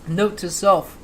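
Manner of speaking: strained voice after choking on coffee. Real, not acted. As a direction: push it out after inhaling coffee. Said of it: "You can't inhale coffee".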